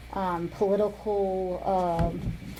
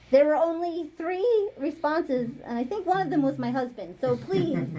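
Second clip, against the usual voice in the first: lightly put-on scolding mom, higher pitched; 5 semitones higher than usual. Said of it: "I'm gonna give you my mom voice".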